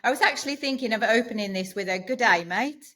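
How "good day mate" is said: mock Australian. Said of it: "I just had to take that one".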